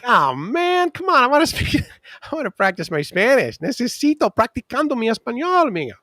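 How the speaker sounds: high, pleading, with a laugh; pleading eagerly. Retold or imitated. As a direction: beg to practise Spanish. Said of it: "I'm like".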